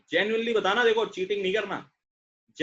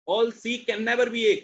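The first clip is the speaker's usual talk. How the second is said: slow reading; 3 dB louder, much slower than usual. Shown as a demonstration. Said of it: "teacher rereading the rule".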